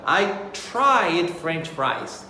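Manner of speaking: slow, careful classroom example. Shown as a demonstration. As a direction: spell it out slowly for learners. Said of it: "example sentence".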